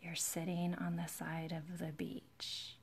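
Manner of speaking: slow, relaxing guided-meditation voice, playfully put on; mindfulness video voice. Nail streamer playfully demonstrating a beach mindfulness video, slow and soothing. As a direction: pretend to lead a mindfulness video, very slowly. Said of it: "mindfulness videos where".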